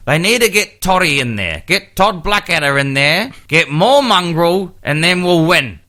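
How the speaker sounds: mock the one-eyed rugby fan demanding mongrel; a hint of a Canterbury fan at the pub; imitating Canterbury fans. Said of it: "the great advice from the public".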